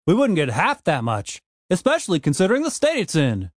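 lightly voiced angry gnome; gruff dwarf Frank. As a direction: argue hotly as a grumpy gnome. Frank explains money bitterly.

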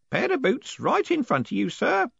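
put-on high, hoarse whispered old man. A narrator's reading. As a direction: rasp it under your breath. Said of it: "Groat's hoarse whisper".

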